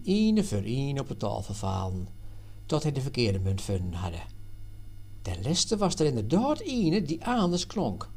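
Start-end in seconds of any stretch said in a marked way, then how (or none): none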